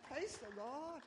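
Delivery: high, loud praise cry; joyful praise. Retold or imitated. Rejoicing in the supermarket at the lady's healing, loud and high. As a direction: lift it up like a shout of praise.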